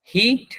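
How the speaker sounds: "হিট" short and high, as in hit; short vowel. Shown as a demonstration. Teacher gives the next example, short vowel in "হিট". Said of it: "এটা কোনো টান হবে না".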